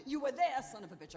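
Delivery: bitter outburst. Acted. Wife flinging an accusation at her husband, loud then hushed. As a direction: hurl it, then sink.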